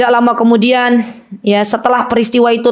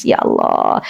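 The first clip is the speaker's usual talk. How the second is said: retold tearful cry; 4 dB quieter, slower than usual. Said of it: "Oh, dia nangis, beliau nangis".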